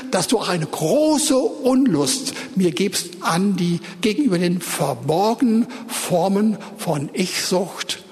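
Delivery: closing prayer at the end of the sermon, steady and intent; fervent prayer. Real, not acted. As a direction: pray to the Lord in the church's name.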